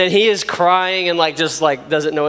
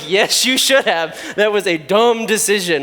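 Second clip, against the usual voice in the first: mock stern. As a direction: drag it out like a teasing adult. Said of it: "I'm like".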